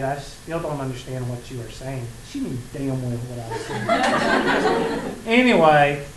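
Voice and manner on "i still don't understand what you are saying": imitating student. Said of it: "she just shook her head".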